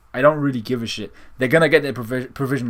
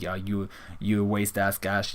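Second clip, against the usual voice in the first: slow, low, softer scornful brush-off; dismissive Endeavor; 3 semitones lower, 7 dB quieter, slower than usual. Retold or imitated. Endeavor brushing off a fan, scornful. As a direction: sneer it out, slowly. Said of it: "Endeavor telling him, like".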